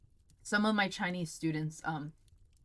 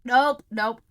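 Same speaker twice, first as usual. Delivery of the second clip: disgusted nope; 5 semitones higher, 12 dB louder than usual. Real, not acted. Tasting food she dislikes.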